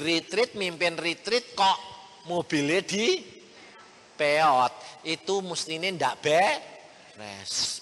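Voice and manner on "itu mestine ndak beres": very slow, drawn-out gossip; slow mocking gossip; mock judging. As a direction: stretch it out like a judgmental gossip. Mocking judgmental churchgoers.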